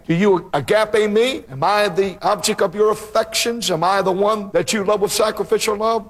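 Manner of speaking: a touch of a pleading Jesus. Acted. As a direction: press the question as a pleading Lord. Jesus pleading with Peter, voiced.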